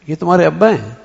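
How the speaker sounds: "ابا" lifted as a question. Shown as a demonstration. Asking a small child about the elder, questioning lift on "ابا". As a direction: ask it, raising "ابا". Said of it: "اس بچے سے سوال کر رہا ہوں".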